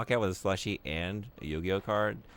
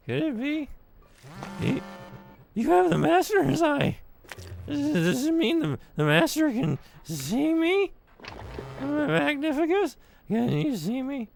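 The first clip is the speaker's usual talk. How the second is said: goo voice; 6 dB louder than usual. Acted. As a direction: speak as the trapped goo, awed and pleading. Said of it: "that was my goo voice".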